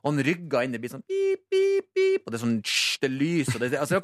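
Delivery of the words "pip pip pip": high, steady beeping like a reversing truck; imitated reversing beeps. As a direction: beep like a machine backing up. (høye pipelyder som en rygge-alarm)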